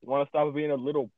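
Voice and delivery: real irritation boiling up; getting mad. Real, not acted. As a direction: scold a misbehaving gadget, loud and rising. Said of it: "getting mad again".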